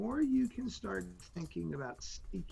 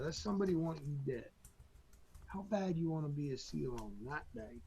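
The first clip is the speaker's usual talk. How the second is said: lightly put-on Southern accent of a drill instructor; Southern instructor accent, loosely imitated. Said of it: "talking in a deep Southern accent".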